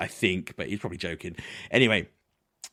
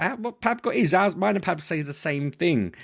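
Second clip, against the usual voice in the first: higher, incredulous How, what, slowing down; mock disbelief; 8 semitones higher than usual. Telling friends about the passes, mock incredulous disbelief. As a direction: act baffled outrage, half joking. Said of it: "I'm like".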